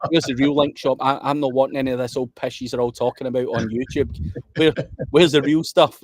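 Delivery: lightly voiced demanding client; a hint of a pushy customer asking for secrets; Ryan Durrani impression. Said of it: "as Ryan Durrani always asked me for".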